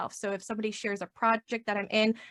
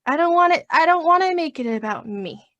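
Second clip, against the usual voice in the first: higher, louder reluctant whine; a hammed-up reluctant groan; 8 semitones higher, 9 dB louder than usual. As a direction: play up how little you want to do it. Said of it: "I get awkward 'cause I'm like".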